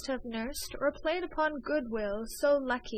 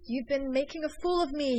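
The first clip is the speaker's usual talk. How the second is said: fierce cry; 4 semitones higher than usual. A narrator's reading. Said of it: "he cried fiercely".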